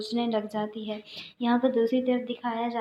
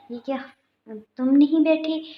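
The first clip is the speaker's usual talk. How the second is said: higher, louder accusing question; 4 semitones higher, 6 dB louder than usual. Retold or imitated. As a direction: throw the question at her, caught out. Sister confronts with photos. (تصویریں دکھا کر بہن کا اونچا الزام بھرا سوال)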